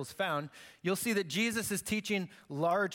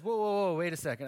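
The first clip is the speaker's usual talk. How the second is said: startled objection; 3 dB louder than usual. Acted. Jesus refusing to referee an inheritance dispute, startled objection. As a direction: cut in to halt the request.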